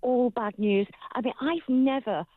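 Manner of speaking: talking through clenched teeth; speaking with a wired jaw; jaw wired shut. Real, not acted. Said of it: "'cause I've been talking through my teeth".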